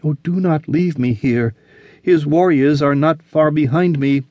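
frightened woman. Acted. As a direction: rush your plea in terror. Olivia frightened, pleading.

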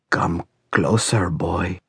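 slow, low-volume ancient voice; very old man. A narrator's reading. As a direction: summon slowly, as someone very old. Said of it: "said an old, old voice".

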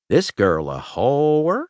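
slow, with "whore" drawn up in a long rising lilt; odd rising twist on "whore"; funny inflection. Acted. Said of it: "a funny inflection on the last syllable".

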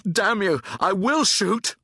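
high, heated warning; angry threat. A narrator's reading. Soldier backed against a door threatens, angrily.

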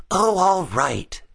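slow, high-pitched reluctant consent; grudging grumble. A narrator's reading. Gus giving in to Bean about Billy, grumbling. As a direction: give in grudgingly, drawn out. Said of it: "grumbled Gus".

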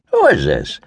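mildly irritated question; understated annoyance; somewhat annoyed. A narrator's reading. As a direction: ask it with a touch of annoyance. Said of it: "Kevin said, somewhat annoyed".

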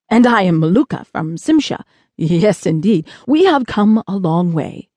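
a touch of self-satisfied ceremony; lightly voiced Maluka. Space traveler introducing himself to a boy, lightly ceremonious. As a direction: introduce himself with mild, pleased formality.

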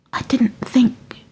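slow, breathless whisper of dawning fear. A narrator's reading. Jessie to Granny, realizing the danger, slow whisper. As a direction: whisper it slowly, barely believing. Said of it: "she whispered".

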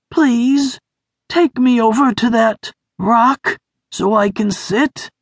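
high, thin, hurt voice; Sniff voice. A narrator's reading.

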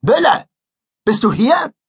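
loud, high booming call. Acted. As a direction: boom it across the gym. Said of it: "Matzens dröhnende Stimme".

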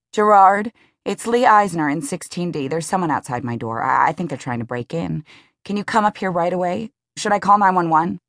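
Lee, anxious and rushed on the phone; urgent, rising worry, asking for help; panicky call. Acted. Lee calls the doorman about a stranger, panicky.

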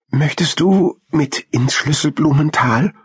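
high-pitched little hamster voice; shy question. A narrator's reading. Hamster invites squirrel along, high mildly shy voice. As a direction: ask a touch shyly, up high. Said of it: "fragte Krümel schüchtern".

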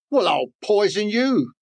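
a touch of a spiteful snake; mock snake hiss. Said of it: "hissed the snake".

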